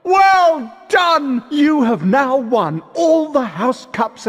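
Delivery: a loud, high burst of congratulation; beaming, booming well done; hearty praise. Acted. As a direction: cheer them on with showman's gusto. Lockhart praising students.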